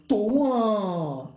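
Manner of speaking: exultant padel cheer, falling at the end; triumphant gesture cry. Shown as a demonstration. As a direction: stretch it out like winning a point. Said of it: "si yo hago así ... digo".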